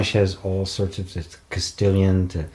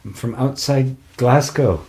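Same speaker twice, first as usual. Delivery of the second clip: slow, slightly higher Glasgow accent; Scottish accent; 5 semitones higher than usual. Shown as a demonstration. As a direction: have a playful go at a Glasgow accent. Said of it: "can you do a Scottish one".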